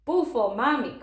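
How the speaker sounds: lightly voiced toddler cooing; cooing baby. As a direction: coo it like a small baby. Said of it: "cooed the baby".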